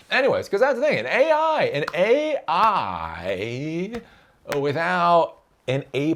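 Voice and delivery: suddenly high-pitched, excited and loud. Real, not acted. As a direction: jump way up in pitch, then stretch it. Excited squeaky climb.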